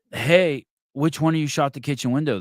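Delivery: put-on shouting at the boys who broke the window; calling out. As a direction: yell out to the kids, accusing. Yelling out at the boys.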